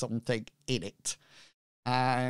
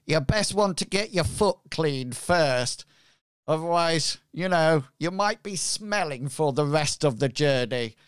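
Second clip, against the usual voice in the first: pirate voice. Acted. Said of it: "my pirate voice".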